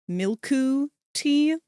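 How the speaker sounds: milku tea, slow, with a Japanese accent; bad Japanese accent. Shown as a demonstration. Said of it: "try to do a bad Japanese accent".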